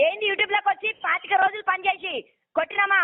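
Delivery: heated, high-pitched scolding on the phone; woman yelling at Satish over the YouTube video; angry shouting. Real, not acted. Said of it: "మీరు ఇంత గట్టిగా మాట్లాడుతుంటే".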